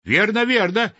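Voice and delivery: high, eager cry of agreement; excited high cheer; crowd shouting agreement. A narrator's reading. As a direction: call out like a whole crowd agreeing. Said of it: "хором крикнули опять все".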